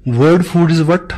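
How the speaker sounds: slow, drawn-out question to the room; coaxing the answer out of the audience, very slow; quiz question. Shown as a demonstration. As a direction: stretch each word as you ask it. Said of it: "teacher quizzing audience slowly".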